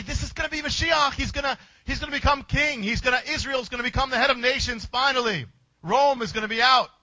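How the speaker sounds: quick, eager hope of the disciples; hopeful followers, words tumbling out fast. Retold or imitated. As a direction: rattle off their hopes for a king. Disciples hail the coming king.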